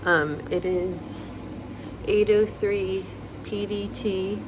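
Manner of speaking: talking with a retainer in; wearing a retainer. Real, not acted. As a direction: speak around a retainer. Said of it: "I have my retainer in still".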